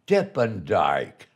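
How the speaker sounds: slow, drawn-out Dip and Dyke; nickname drawn out. Retold or imitated. Recalling his comic nickname, slow and drawn out. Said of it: "that's been my name ever since".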